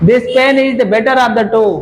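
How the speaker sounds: gives the right version slowly, word by word; slow, clear model sentence; slow corrected read. Shown as a demonstration. Teacher slowly reads corrected sentence after student answers. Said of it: "pen की तुलना pen से ही हो रही है".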